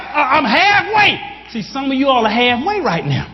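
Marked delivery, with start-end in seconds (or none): 0.0-1.2 higher, louder triumphant holler. Retold or imitated. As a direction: shout it to an empty room. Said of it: "I had to talk to myself".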